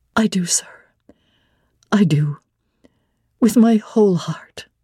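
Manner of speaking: wholehearted, reverent, devout earnestness. Answering a man who asks whether she loves him: earnest, religious energy. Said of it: "you said it with such an earnest, religious energy".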